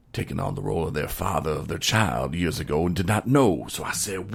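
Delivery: lightly put-on country storytelling accent; hillbilly storyteller. Telling his wing-night story to the listener, mild hillbilly accent. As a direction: spin the yarn with a hint of hillbilly drama. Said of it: "angry hillbilly".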